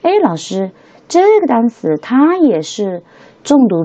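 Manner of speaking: high, drawn-out voice of a puzzled pupil; questioning student. Acted. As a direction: pipe up as a student querying the teacher. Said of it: "同学们可能就有疑问了".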